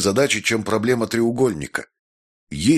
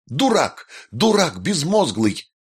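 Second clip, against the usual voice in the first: much higher shrieking insult, slow on the second; wild yell; 8 semitones higher, slower than usual. A narrator's reading. Jessica suddenly screaming at the maestro, shrill wild yell. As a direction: scream it like a madwoman. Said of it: "вдруг завопила, как шальная".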